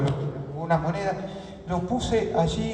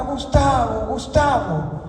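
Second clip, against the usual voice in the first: raised, higher call of the name; retold shout, a little louder; imitated calling out; 4 semitones higher, 3 dB louder, slower than usual. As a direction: call after someone to stop them. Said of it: "que me gritaba".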